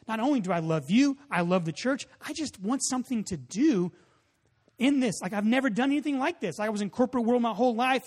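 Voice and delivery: excited pleading. Retold or imitated. Retired man pleads to help start the church, mildly excited. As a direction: retell an eager plea, picking up pace. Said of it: "he was so excited".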